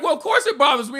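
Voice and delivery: high, indignant retort; exasperated Larry David. Retold or imitated. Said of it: "And he's like".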